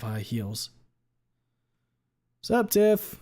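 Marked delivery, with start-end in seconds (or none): 2.4-3.2 bro voice. Acted. Leon voice.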